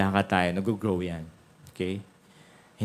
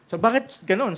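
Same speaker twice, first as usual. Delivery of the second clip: puzzled question; 12 semitones higher, 4 dB louder than usual. Acted. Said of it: "Sabi niya ganun".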